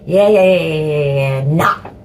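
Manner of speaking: rattled-off yeses dropping to a refusal; comic stammered agreement, then abrupt reversal; Vicar of Dibley refusal. Retold or imitated. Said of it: "a bit like the Vicar of Dibley".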